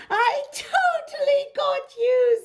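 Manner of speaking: high gleeful tease; playful teasing. A narrator's reading. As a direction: gloat like a prankster kid. Hippo teases after splash.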